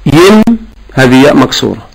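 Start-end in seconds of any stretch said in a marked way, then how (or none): 0.1-0.4 ين as a separate, higher syllable; added ya demo. Shown as a demonstration. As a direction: isolate the mistaken "yin" ending in ين. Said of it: "هذه هي الياء".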